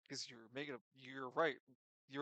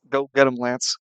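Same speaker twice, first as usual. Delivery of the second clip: banner read loud; 22 dB louder than usual. Acted. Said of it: "It reads".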